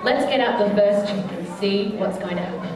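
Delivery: put-on bright, sing-song show voice for kids; kids party magician. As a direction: lead the crowd like a children's entertainer. Magician addressing children's party.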